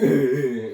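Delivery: demonstrated bashful giggle, a bit held in; put-on embarrassed titter; slightly restrained giggle. Shown as a demonstration. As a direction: giggle as if shy in public. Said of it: "slightly less".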